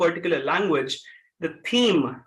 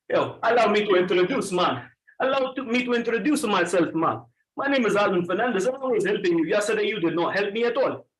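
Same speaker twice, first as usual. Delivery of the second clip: Jamaican accent. Shown as a demonstration. Trainer introduces himself as a demo to class, Jamaican accent. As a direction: speak from the throat like a Jamaican. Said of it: "sound like a Jamaican".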